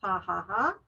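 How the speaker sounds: laughter sound demo. Shown as a demonstration. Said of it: "you forcefully say one of the laughter sounds".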